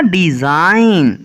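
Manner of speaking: slow डिजाइन with the G left out; silent G. Shown as a demonstration. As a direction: stretch डिजाइन out, no G before the N. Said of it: "इसको क्या पढ़ना है".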